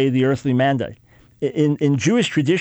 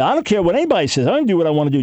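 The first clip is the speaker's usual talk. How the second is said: defiant rebel; 4 semitones higher, much faster than usual. Retold or imitated.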